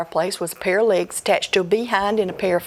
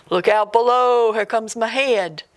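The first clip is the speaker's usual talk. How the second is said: ghost voice calling; 2 semitones higher, 4 dB louder than usual. Acted. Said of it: "finally the voice said".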